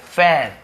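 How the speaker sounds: फैन on a long, wide ऐ; AE in fan. Shown as a demonstration. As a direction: hold the open vowel in फैन. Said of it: "ऐसे पढ़ते हैं". (फैन, चौड़े ऐ से)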